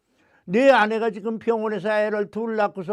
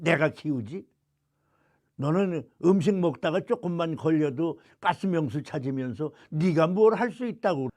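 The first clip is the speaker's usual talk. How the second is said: God scolding; 3 semitones lower than usual. Retold or imitated. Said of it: "저에게 말씀을 하시더라고요".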